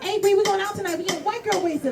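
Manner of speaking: put-on white girl friend voice. Friends calling Bree, high peppy white girl voice. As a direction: chirp the invitation. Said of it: "calls from your friends like".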